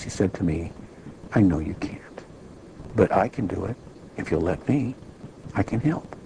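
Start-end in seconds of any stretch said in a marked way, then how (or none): 1.3-6.1 loving voice. Retold or imitated. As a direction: speak it tenderly, like a loving father. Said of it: "in a very loving voice".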